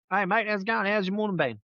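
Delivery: high, breezy fake-cheerful boss greeting; overly chummy high-pitched boss; mock-friendly boss. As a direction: lift the voice way up, playing the boss who acts like nothing happened.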